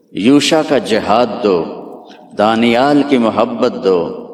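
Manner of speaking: slow, evenly beaten sermon chant; measured litany. Acted. Preacher to the congregation, listing each prophet's gift, slow and rhythmic. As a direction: lay each gift down one by one, slowly.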